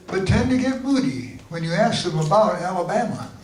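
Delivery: measured, lilting limerick reading; limerick recital. Acted. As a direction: recite it as comic verse. Recites own comic limericks.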